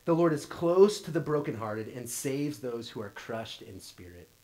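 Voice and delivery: measured psalm reading; scripture reading. Shown as a demonstration. Pastor reads the psalm to the congregation, measured. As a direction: read it as scripture. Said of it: "it says this".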